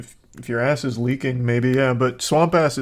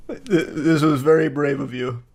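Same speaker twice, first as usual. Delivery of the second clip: laughing under breath; breathy laughing tease; whispered laugh. Real, not acted. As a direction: giggle the words out in a whisper. Laughing at friend's confession.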